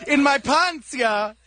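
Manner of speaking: put-on comic Swedish accent. Radio comic as Johnny Sweden for the hosts, Swedish accent. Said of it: "it's Johnny Sweden".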